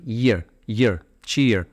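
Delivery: ईयर twice without its first consonant, then चीयर; vowel sound isolated. Shown as a demonstration. Teacher isolating the vowel sound, ईयर, ईयर, then चीयर. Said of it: "एक syllable".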